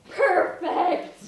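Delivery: breathless delight; delighted gasp. Acted. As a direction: struck by a brilliant idea. Designer gasps at outfit idea.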